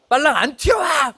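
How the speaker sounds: high, loud barked order at a junior; retold yell. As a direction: yell at the late junior to hurry. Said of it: "막 제가 소리 질렀어요".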